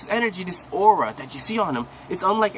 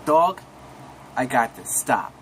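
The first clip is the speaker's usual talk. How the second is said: tough warning; 3 semitones lower, slower than usual. Retold or imitated. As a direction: bark "Dog" then drop it low and firm. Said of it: "Jiren was like".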